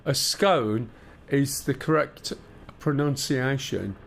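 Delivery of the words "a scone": "scone" with a long O, like its name. Shown as a demonstration. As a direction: say "scone" to rhyme with "cone". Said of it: "makes the O sound its name".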